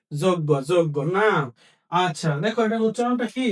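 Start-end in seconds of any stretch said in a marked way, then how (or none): 0.1-1.0 যোগ্য said "joggo", twice over; familiar pronunciation. Shown as a demonstration. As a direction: say যোগ্য as "jog-go", doubled g. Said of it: "আমরা সারা জীবন বলে আসছি".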